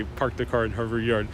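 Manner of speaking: soft, quiet mid-Atlantic accent. Shown as a demonstration. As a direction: say it like an old Hollywood mid-Atlantic star. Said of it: "a mid-Atlantic accent".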